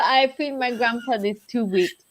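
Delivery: tearful. Retold or imitated. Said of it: "I start crying".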